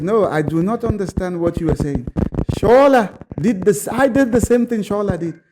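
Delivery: a hint of an Italian colleague's accent, insistent. Italian colleague defending Shola to the bosses, lightly imitated Italian accent. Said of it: "in the Italian accent".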